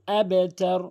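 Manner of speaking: আবেতার with a loud bounce on বা; qalqala bounce. Shown as a demonstration. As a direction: hit the বা in আবেতার with an echo. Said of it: "এভাবে তেলাওয়াত করবেন". (কলকলা দিয়ে আবেতার)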